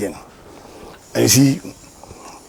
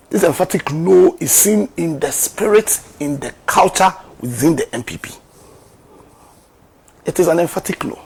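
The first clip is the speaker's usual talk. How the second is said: emphatic loud declaration; 5 semitones higher, 6 dB louder than usual. Real, not acted. Building emphatic rhetorical point.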